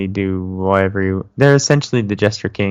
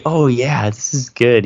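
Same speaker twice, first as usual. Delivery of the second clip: fake enthusiasm; 4 semitones higher, 3 dB louder than usual. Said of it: "even though it's terrible".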